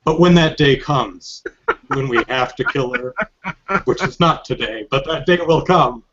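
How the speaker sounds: mildly hammed-up solemn vow; lightly mock-dramatic, pausing between phrases; played up for laughs. Second guy addressing Revolver Ocelot, lightly hammed-up gravity. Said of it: "I'm playing it up for laughs".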